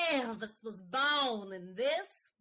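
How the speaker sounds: slow, grand tour-guide announcement; mock-solemn tour guide line; tour guide declaring. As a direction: proclaim it like a proud museum guide. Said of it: "the tour guide declaring".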